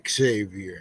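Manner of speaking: Xavier with a soft s, say-vee-er, low and soft; own pronunciation. Shown as a demonstration. Guest teaching the host his name, Xavier with an s. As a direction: say Xavier the way he says it himself. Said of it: "I pronounce it".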